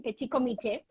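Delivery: petit comité said the French way, quick; French pronunciation. Real, not acted. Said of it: "as we say it in, in France".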